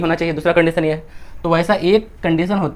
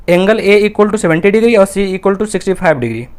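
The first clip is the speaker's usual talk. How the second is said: slow dictation; 3 dB louder, much slower than usual. Shown as a demonstration. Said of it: "reading out the question slowly".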